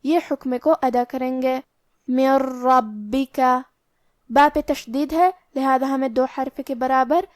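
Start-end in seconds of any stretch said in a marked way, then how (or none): 2.1-3.4 من ربک with the ن merged into ر; idgham without ghunnah. Shown as a demonstration. Teacher showing the merged نون in من ربک. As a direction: slide ن into ر slowly. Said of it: "نون کو را میں ملا کے بغیر غنہ".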